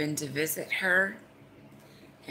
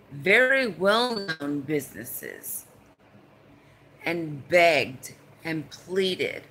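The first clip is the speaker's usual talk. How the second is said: getting pissed off; 3 dB louder than usual. Real, not acted. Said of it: "I'm gonna get severely, but pissed off".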